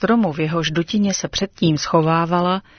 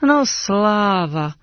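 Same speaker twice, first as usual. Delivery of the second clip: drawn-out sigh of relief, slow; relieved, slow; much slower than usual. Acted. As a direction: let the relief out slowly. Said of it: "ozvalo se s úlevou".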